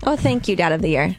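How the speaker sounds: dry sarcastic thanks. Real, not acted. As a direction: thank them with mock gratitude. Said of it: "That was sarcasm".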